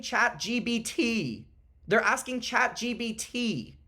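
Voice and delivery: "Chat G B T" with a hard B sound instead of P; "Chat G B T" spoken with a B for the P; says G B T. Real, not acted. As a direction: say "G B T" as gee bee tee, a B where the P belongs. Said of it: "he said G B T both of those times".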